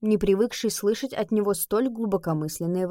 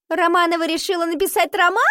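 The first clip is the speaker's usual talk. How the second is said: mocking; 9 semitones higher, 4 dB louder than usual. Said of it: "смотрела на Нику с издёвкой".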